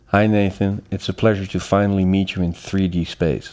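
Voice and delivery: relaxed, easy greeting; calm. Real, not acted. Guest greets host on finally meeting in person, calm. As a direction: greet him with real, unhurried calm. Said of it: "You sound so calm".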